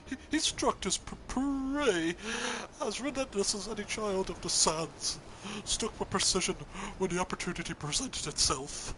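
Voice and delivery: a hint of a timid lion; lightly voiced nervous lion. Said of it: "I'm being too cowardly".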